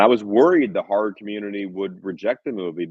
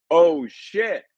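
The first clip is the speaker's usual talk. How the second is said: high, excited yelp from the crowd; mild mock shout; 10 semitones higher, 4 dB louder than usual. Audience member at the premiere, in a high mock shout. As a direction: retell the audience yelling, a touch hammed-up. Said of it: "people were screaming".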